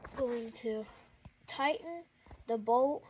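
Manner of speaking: gasping for air between words; winded, struggling for breath. Real, not acted. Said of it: "I'm out of breath".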